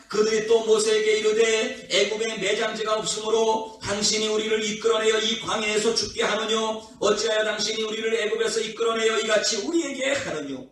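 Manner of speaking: level, sustained recitation of a verse; scripture reading. Real, not acted. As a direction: read the verse aloud in a steady, formal monotone. Reads scripture verse aloud. (성경 구절을 일정한 음조로 낭독하듯)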